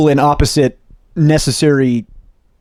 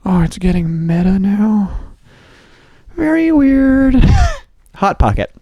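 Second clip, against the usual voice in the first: high, drawn-out onlooker aside; Jim Gaffigan's audience voice; 4 semitones higher than usual. Retold or imitated. Audience voice judging the bit, high and slow. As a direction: draw it out in a high put-on voice. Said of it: "he does the perspective of the audience".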